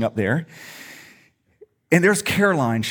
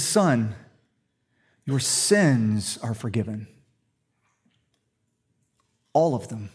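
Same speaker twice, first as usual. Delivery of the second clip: tender forgiveness; 6 semitones lower, 4 dB quieter, slower than usual. Retold or imitated. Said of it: "He says".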